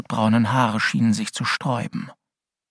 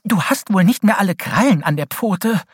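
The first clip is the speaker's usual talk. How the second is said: complaining; 9 semitones higher, 6 dB louder than usual. A narrator's reading. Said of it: "beschwerte sich Holly".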